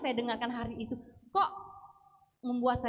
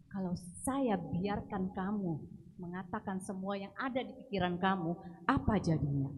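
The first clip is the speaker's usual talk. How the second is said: gentle inner voice. Retold or imitated. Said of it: "suara dalam hati saya bilang".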